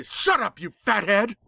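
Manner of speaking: very high, sharp insult; the bird snaps back, high and nasty; angry snap. A narrator's reading. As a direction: bird losing its temper, spitting it out. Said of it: "it snapped angrily".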